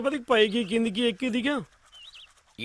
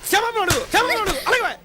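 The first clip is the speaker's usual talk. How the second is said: insistent demand; 8 semitones higher than usual. Acted. Father demands apology from daughter.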